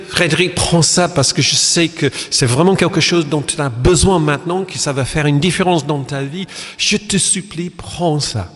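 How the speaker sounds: urgent heartfelt plea; pleading offer. Shown as a demonstration. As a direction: beg him to take it. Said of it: "C'est totalement différent, les deux propositions".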